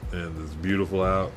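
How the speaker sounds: blissed-out high voice; stoned. Real, not acted. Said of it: "I'm extremely high".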